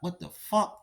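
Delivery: stunned whisper. Retold or imitated. Teen alone in a jail cell, whispering in shock. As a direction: whisper it like you can't believe this is happening.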